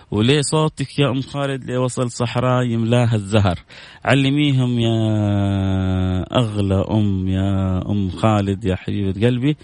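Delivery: heartfelt recitation, drawing out the name; tender verse to Um Khalid; reciting the poem. Acted. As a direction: read it as a loving dedication. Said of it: "بقراها مرة ثانية".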